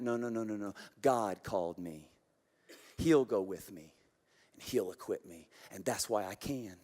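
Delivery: steady, hushed confidence; quiet resolve. Acted. Pastor reassuring himself against doubt, hushed and firm.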